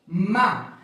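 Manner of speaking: BE, RE, MA with a pause after each syllable. Shown as a demonstration. Teacher reading out what is written, syllable by syllable. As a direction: sound out B, Re, Ma one separate syllable at a time. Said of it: "Aqui eu tenho quantas sílabas?".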